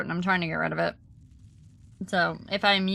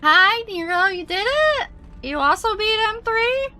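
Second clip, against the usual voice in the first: excited; 11 semitones higher than usual. Real, not acted. Excited greeting to chatter.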